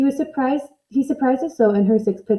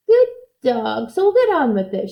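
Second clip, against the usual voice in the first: cried out. Acted. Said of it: "she cried".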